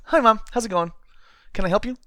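a hammed-up sunny hero ignoring danger; mock cheery greeting. Podcaster mocks cheerful heroes during a strangling, high and loud. Mocking comic dialogue, cheery.

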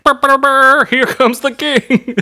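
mock trumpet fanfare. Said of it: "I'm sure they're just like".

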